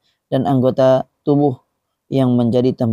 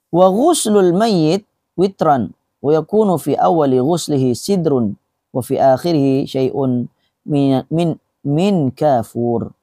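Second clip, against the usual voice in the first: measured reading, slowing into long vowels; Arabic text recitation; 2 semitones higher, slower than usual. Acted. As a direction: read the Arabic out deliberately, stretching the endings. Reads Arabic book text aloud. (pembacaan teks Arab yang perlahan)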